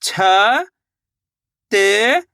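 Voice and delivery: छ, then त, widely spaced; letter-by-letter sounding out. Shown as a demonstration. Teacher repeats the demonstration for learners, छ and त one at a time. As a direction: isolate छ, pause, then draw out त. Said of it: "एक बार फिर से देखिए".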